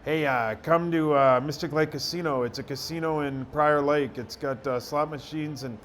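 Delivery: mock stock ad read, softening as it goes; imitated unnatural ad read. Radio guy mimicking an old casino ad, mock unnatural read. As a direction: recite it like a stiff, by-rote commercial. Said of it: "we don't talk like that".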